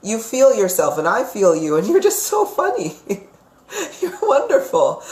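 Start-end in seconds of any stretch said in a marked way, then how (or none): 1.9-5.0 high, giggling praise; delighted laughing. Real, not acted. Psychic laughing fondly as she describes Jessica. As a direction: laugh through the compliment.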